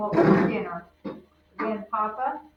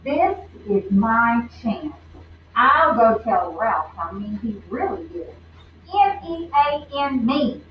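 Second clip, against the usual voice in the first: determined; 5 dB louder than usual. Acted. Lucy resolving angrily.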